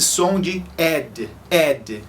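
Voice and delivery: "ed" said as a full separate syllable; wrong ed ending. Shown as a demonstration. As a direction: spell out "ed" like eh-d. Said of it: "Geralmente as pessoas pensam que tudo se pronuncia".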